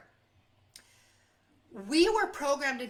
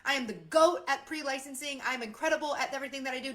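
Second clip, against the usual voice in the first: bragging demo; faster than usual. Shown as a demonstration. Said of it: "Do you feel yucky when I do that?".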